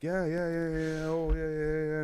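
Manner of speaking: mock rapid-fire agreement; imitated group chatter. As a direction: lightly mimic friends nattering along. Retold group chatting away in English.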